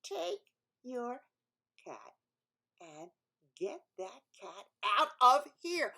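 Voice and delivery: 1 angry retort. Acted. Woman shouts back at man.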